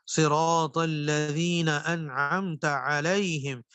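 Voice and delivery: slow Quranic recitation, انعمت with زبر on تا; correct recitation. Shown as a demonstration. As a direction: recite it slowly and properly. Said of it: "انعمت کی جگہ انعمت". (صحیح تلاوت، انعمت زبر کے ساتھ)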